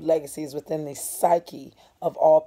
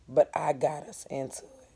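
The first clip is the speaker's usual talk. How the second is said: listless. Acted. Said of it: "he said listlessly".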